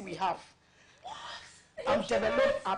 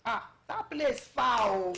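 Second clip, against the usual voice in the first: mom's disapproval; much slower than usual. Retold or imitated. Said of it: "my mom was like".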